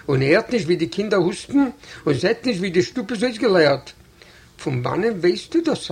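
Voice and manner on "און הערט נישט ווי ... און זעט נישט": plain reading voice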